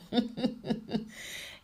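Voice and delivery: breathy, quiet, wheezy chuckle; amused laugh. Real, not acted. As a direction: laugh softly at yourself. Laughs at own remark about leaves.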